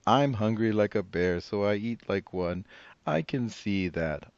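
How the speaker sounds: put-on old woman voice. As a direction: play the cheerful old grandmother.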